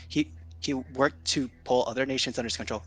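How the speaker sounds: restarting with a stammer; stammer, then push through; stuttering restart. Real, not acted. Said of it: "This is me, like, stuttering".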